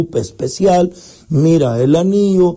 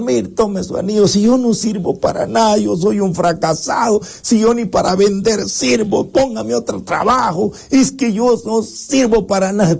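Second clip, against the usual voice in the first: dejected youth; 5 semitones higher than usual. Acted. Dejected youth returns the ring.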